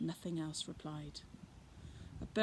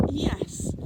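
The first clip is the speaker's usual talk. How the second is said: higher, louder sheepish yes; 7 semitones higher, 10 dB louder than usual. Acted. Fred admitting to the girl he threw it, sheepish. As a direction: admit it awkwardly.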